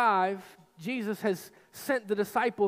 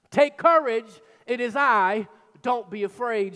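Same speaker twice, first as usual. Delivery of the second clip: commanding call; 7 dB louder than usual. Acted. Jesus calling to terrified disciples across the waves, strong and commanding. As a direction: call over the storm with authority.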